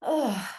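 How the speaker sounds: a short exasperated "Ugh" sigh; mild demonstrated sigh; demo sigh. Shown as a demonstration. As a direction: sigh out a heavy groan of grief. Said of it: "lots of sighing".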